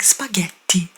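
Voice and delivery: put-on spaghetti in an overdone Italian accent; mock Italian accent. Mimicking people switching accent mid-English, overdone Italian accent on spaghetti. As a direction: punch out spaghetti like a showy Italian. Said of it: "They'll pronounce it in, like, an, a crazy accent".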